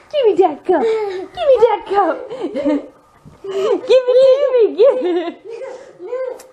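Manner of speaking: high, laughing tug-of-war over the cup; laughing demand. Real, not acted. Mom laughing as toddler keeps the cup, pleading. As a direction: giggle through it while grabbing the cup.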